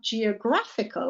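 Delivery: "geographical" as "jee-uh-GRAF-ical"; E pronounced. Shown as a demonstration. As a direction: keep the E in geographical, stress GRAPH. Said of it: "I put the E back in".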